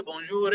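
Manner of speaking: "bonjour" with the final r sounded, voice rising; demonstrated pronunciation. Shown as a demonstration. Teacher shows inconsistent French, "bonjour" with a sounded r. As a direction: say "bonjour" with an audible r at the end. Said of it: "That must have been mispronunciation".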